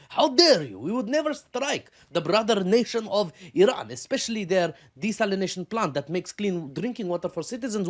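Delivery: hammed-up Arab accent, shrill with offended indignation; mock Arab accent. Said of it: "I don't know if that's an Arab accent".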